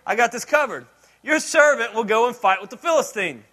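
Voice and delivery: cocky reassurance. Retold or imitated. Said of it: "In other words".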